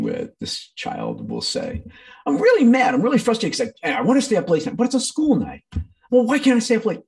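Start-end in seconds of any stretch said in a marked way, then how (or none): 2.3-5.6 mildly voiced upset child, higher and louder; a hint of a sulky child; whiny child. Child voiced complaining, loud. 6.1-7.0 mildly voiced upset child, higher and louder; a hint of a sulky child; whiny child.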